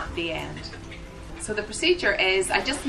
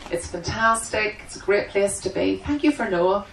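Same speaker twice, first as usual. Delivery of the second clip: prayer; 2 semitones lower than usual. Acted. Opening prayer before the seminar.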